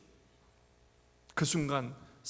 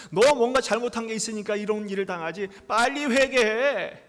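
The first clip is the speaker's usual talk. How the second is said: louder scolding, slowing hard on repent; accusing friend; 4 semitones higher, 8 dB louder than usual. Retold or imitated. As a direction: scold Job like a self-righteous friend. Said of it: "정죄하고 비방하고 책망하고".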